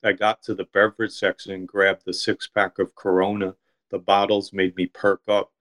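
measured, even literary narration; story reading. A narrator's reading. Author reading his deli story to a listener, story reading. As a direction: read your own short story aloud.

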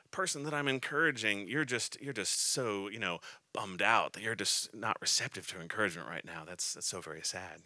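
falling, exaggerated pity, tongue in cheek; mock pity. Preacher mocking pity for a discouraged person he encourages. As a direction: play up the sorrow for a laugh. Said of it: "I wouldn't say it in that tone that I just did. I'm trying to be a little bit funny".

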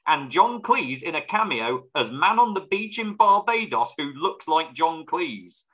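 ordinary delivery

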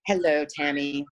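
imitating a smug doctor's patronizing greeting. Smug doctor greets sick patient Tammy, patronizing. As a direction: talk down to her as if she were a child. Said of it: "Very, very patronizing".

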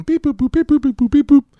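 high, loud electronic beeps and boops; robot beeping. Pretend. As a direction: chirp it like a randomizer machine. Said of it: "I hit the randomizer button".

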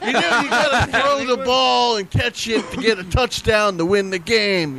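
lightly voiced football commentator; a hint of a rambling sports pundit; John Madden. Playing up to co-hosts waiting for it, light commentator impression. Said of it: "I'm waiting for John Madden to come out".

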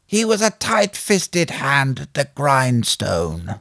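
slow, laboured mock American accent; badly faked American, drawn right out; attempted American accent. Host quoting a film for the guessing game, attempted American accent. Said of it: "supposed to be an American accent".

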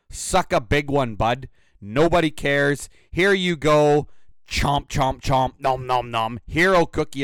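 loud, sneering fake award speech; hammed-up mock award for the complainer; sarcastic mock praise. Real, not acted. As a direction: hand him the prize dripping with sarcasm. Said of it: "a lot of sarcasm there".

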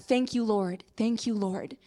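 low, soft thanks through tears; hushed and grateful, close to crying; tearful thanks. Retold or imitated. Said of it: "Crying through the tears".

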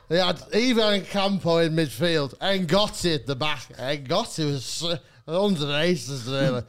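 lightly imitated drunken rambling; slow down into a mildly incoherent drunk ramble; drunk Jamie. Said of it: "no longer able to speak English".

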